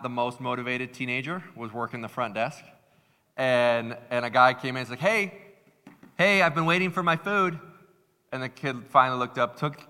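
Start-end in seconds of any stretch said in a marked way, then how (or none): 5.0-7.6 imitating a customer demanding attention, pitched up; mildly indignant mock complaint; impatient customer. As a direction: call out like a waiting customer. Retelling impatient customer at counter.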